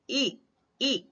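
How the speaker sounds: "ई" modelled twice for learners to copy; palatal vowel demo. Shown as a demonstration. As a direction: say "ई" alone as a long ee, pause, repeat. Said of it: "इस तरह उच्चारण करके देखिए".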